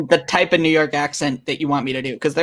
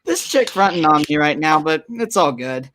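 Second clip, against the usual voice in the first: put-on New York accent. New York Nick riffing for the stream, mild New York accent. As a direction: keep a mild New York street swagger. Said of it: "he's gonna go full New York on ya".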